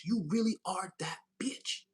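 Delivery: slow, stretched sassy praise; slow drawn-out sass. Pretend. Reader praising viewer, slow drawn-out sass. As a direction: savor each word slowly. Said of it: "I don't even talk like that".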